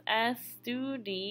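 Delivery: estudiáis said slowly and softly, syllable by syllable; careful model pronunciation. Shown as a demonstration. Teacher modeling the vosotros form for students, slow and careful. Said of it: "just like that".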